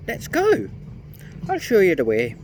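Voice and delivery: high, odd little gnome voice; sly gnome. A narrator's reading. Gnome tempting the children toward the magic well, sly and high. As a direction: play a sly gnome leading them on.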